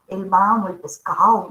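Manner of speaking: mock Argentine intonation; Argentine accent. Shown as a demonstration. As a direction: punch the words with an Argentine lilt. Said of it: "los argentinos que también tienen esa entonación distinta".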